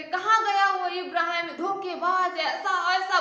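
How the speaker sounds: high, cursing tirade; abusive scolding. Retold or imitated. Pathan abusing Ibrahim before his wife, scolding. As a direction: hurl insults at the absent man. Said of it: "गाली दे दे करके, डांट डांट के".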